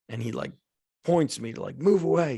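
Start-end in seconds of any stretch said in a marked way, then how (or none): 1.8-2.4 raised, louder mock order; retold shout. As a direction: imitate a coach shouting someone off. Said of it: "He shouts at me".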